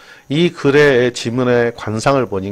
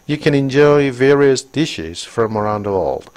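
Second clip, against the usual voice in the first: very slow, clear English read; slow textbook reading; slow reading aloud; 2 semitones higher, much slower than usual. Shown as a demonstration. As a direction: read it out word by word for the class. Reads English sentence aloud.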